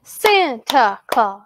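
"Santa Claus" slowly in three even beats; syllable by syllable. Shown as a demonstration. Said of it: "Clap that with me now".

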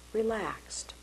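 breathy whispered word, falling; soft spa whisper. Shown as a demonstration. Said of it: "So here's a very simple technique".

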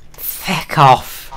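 high, loud hammed-up "Feck off!"; mock Irish shout. Telling his friend off with a mock Irish shout. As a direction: bark it like a cartoon Irishman.

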